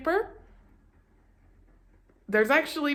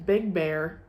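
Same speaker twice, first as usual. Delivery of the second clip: low big voice for big bear; 5 semitones lower than usual. Shown as a demonstration. Contrast reading small and big.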